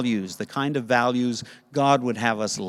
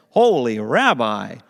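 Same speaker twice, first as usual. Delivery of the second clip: grateful Batman voice; 4 dB louder than usual. Acted. Grateful man thanks the rabbi.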